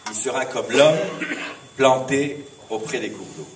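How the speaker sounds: measured storytelling with pauses between phrases; fable recitation. Acted. Poet reciting his fable to the congregation, measured recitation.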